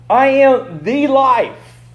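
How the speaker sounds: slow, weighty I am the life with "am" leaned on; slow emphasis. Shown as a demonstration. Preacher quoting Jesus, slow and weighty. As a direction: stress "am", slowly. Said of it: "quoted with emphasis".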